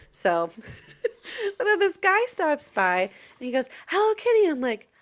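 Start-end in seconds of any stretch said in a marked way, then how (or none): 3.9-4.4 man greeting. Retold or imitated. Voicing a man greeting her.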